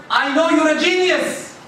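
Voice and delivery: high-pitched, upbeat praise; encouraging praise. Acted. Parent cheering on a stressed child, encouraging. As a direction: boost a child's confidence.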